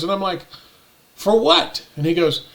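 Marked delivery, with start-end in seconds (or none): 1.1-1.9 higher, indignant demand; retold outraged question; incredulous question. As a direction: demand a reason in disbelief. Retold disbelief at the bail.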